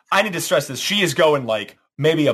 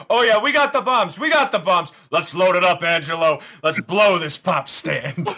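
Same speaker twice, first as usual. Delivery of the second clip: excited NPC; 3 semitones higher than usual. Acted. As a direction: play it cocky and upbeat. Character voiced by GM.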